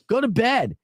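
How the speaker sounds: high-pitched, acted exasperation; mock irritation with a partner; irritated order. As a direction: retell a fed-up command. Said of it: "I'm like, I'm irritated".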